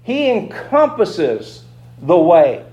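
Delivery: ordinary talk, nothing marked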